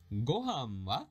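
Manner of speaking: "Gohan wa" drawn out slowly; slow, awkward reading. Shown as a demonstration. Teacher reading a sample conversation, slow and careful. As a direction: read "Gohan wa" at learner's pace. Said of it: "that was a little awkward".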